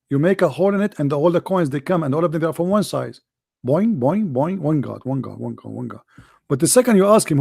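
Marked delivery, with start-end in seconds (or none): 3.6-6.0 mechanical boings, fading and dropping lower; a machine spitting out the same words, dying away; mock coin machine. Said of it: "A Muslim is like a coin machine".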